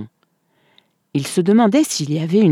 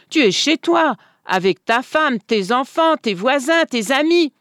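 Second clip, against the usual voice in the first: voisin insistant; 9 semitones higher than usual. A narrator's reading. Le voisin raisonne Schmiel.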